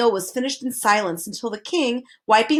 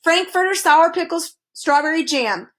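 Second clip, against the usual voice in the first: shouting; 7 semitones higher, 4 dB louder than usual. A narrator's reading. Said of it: "shouted Officer Schrift".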